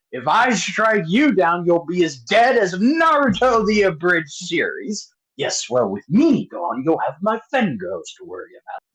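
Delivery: lightly hammed-up movie villain duel; villain quote. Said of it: "can you quote the scene".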